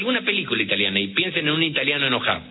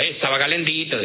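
mock Italian excuse; 3 semitones higher than usual. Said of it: "Esto en italiano diría".

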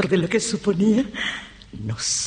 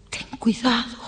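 higher, pleading caution; voiced warning; 7 semitones higher than usual. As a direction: repeat the warning aloud, pitched high. Repeats warning, now voiced higher. (advertencia en voz más aguda)

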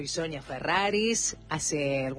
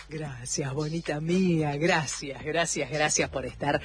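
tender, grateful warmth after laughing; affectionate thanks; 2 semitones lower than usual. Real, not acted. Host thanking a listener for keeping company, affectionate. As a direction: thank a dear listener fondly.

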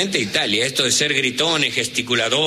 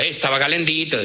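Italian excuse; 2 semitones higher than usual. Retold or imitated. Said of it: "Esto en italiano diría".

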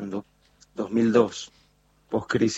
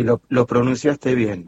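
usual speaking voice

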